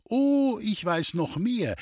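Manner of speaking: put-on a girl drawing it out to tease him; teasing young girl. Gypsy girl teasing the surprised soldier, high and slow.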